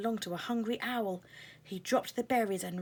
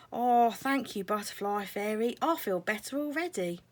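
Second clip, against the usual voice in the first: grateful caterpillar; 3 semitones higher, 5 dB louder than usual. Acted. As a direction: thank her warmly, voiced up. Caterpillar thanks fairy.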